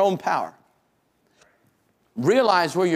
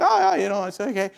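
fatherly soothing; 3 semitones higher, faster than usual. Acted. Father comforting his fallen little son, high and soothing. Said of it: "my fatherly instincts".

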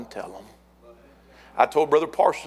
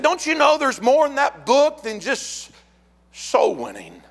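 high-pitched, insistent retold objection; acted rebuke; 12 semitones higher, 3 dB louder than usual. Couple challenges preacher about the book, high-pitched rebuke. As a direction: imitate an indignant objection, pitched way up.

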